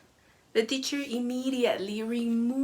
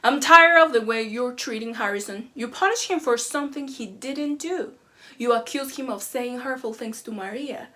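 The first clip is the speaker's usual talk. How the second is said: angry parent screaming; 4 dB louder than usual. Retold or imitated. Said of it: "The parent again screams".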